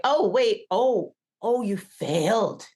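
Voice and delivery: high, loud surprised mock voice; imitating a teacher blurting out the news; imitating Lambros. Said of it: "he was like".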